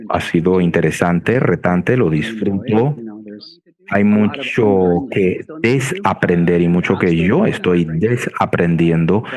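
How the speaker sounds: Spanish spoken with an American accent; non-native Spanish, American accent. Real, not acted. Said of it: "mi español académico no es suficientemente fluido".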